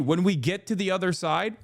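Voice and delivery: rising disbelieving repeat of "When we get to the other side?"; incredulous echo. Real, not acted. To chat, mocking the critic's phrase, scoffing rising echo. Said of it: "Well, when we get to the other side".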